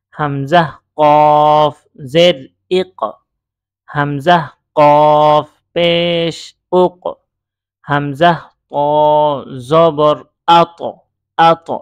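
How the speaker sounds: letter names chanted long, "ইক", "উক", "আত" ending in a bounced consonant; qalqalah spelling drill. Shown as a demonstration. Teacher spelling for learners, drawn-out names then "উক" with a bounced q. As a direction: hold "কফ" long, then punch "ইক" with an echoing release. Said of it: "ঠিক একইভাবে".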